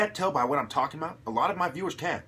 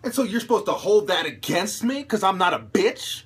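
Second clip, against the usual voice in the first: loud, raised indignant tirade; angry rant; 3 semitones higher, 5 dB louder than usual. Real, not acted. Defending himself against critics, loud and indignant. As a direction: hurl it at the critics.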